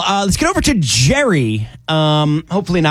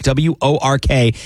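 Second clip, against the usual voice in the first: slow spelling; 2 semitones lower, slower than usual. Shown as a demonstration. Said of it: "keyword of work".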